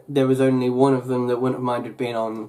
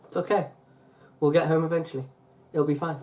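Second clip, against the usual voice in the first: mild reassurance; 4 semitones higher, faster than usual. Retold or imitated. Daughter to panicking mum at a late plane, mildly soothing. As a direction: lightly soothe someone who is fretting.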